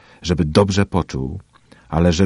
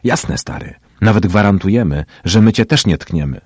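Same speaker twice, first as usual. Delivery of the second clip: giggling jeer; 5 semitones higher, 8 dB louder than usual. A narrator's reading. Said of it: "zachichotał i powiedział".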